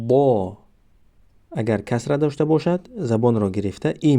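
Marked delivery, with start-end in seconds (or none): 0.1-0.6 با with a clear a vowel; syllable demo. Shown as a demonstration. Teacher models با with fatha. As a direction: say با crisply.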